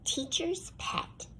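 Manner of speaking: a slow, grumbling aside under the breath; whispered. A narrator's reading. Child narrator whispers her jealous refrain about the dog.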